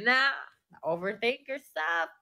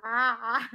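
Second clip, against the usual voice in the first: louder acted wail; mock crying; 5 dB louder than usual. Showing how she started crying, mock sobbing. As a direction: wail out a short pretend cry. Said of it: "paiyak na ako".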